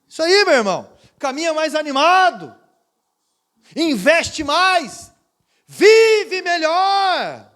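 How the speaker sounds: loud, high, very slow exhortation; full-force preaching. Acted. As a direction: preach it out, word by word.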